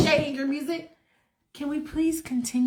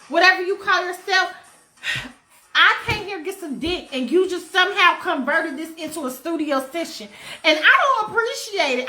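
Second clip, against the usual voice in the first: higher, quick indignant rant; sassy rapper rant; 3 semitones higher than usual. Retold or imitated. A rapper scolding Michael in the studio, higher and sassy. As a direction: tell him off like an offended diva. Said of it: "And she's like".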